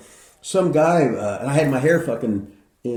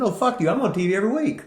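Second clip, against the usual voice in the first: cocky brush-off; 8 semitones higher, faster than usual. Retold or imitated. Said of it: "I said".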